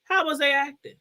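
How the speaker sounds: straight-faced ask; deadpan question. Retold or imitated. Mother asks the neighbor with a straight face how her boys behaved. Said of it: "straight face like this".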